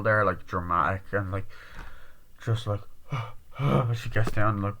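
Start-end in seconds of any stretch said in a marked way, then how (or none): 2.8-3.9 imitated heavy exhale; acted shaken sigh. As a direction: act out catching a breath in shock.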